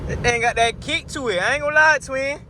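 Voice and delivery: very high, thrilled exclaiming. Real, not acted. Driver raving to twin about the car's kick, high excited squeal.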